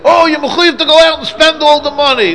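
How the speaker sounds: mock high voice. Mock quote of a wrong view.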